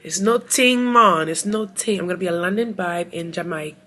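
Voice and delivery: loud, hammed-up attempt at a Jamaican accent; playful, botched Jamaican accent; bad Jamaican accent. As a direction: put on a wobbly Jamaican accent. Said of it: "what kind of accent was that".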